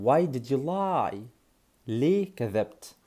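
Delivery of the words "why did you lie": very slow, word by word for repeating; slow teaching. Shown as a demonstration. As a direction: model it slowly for the class. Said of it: "ها، قول معايا".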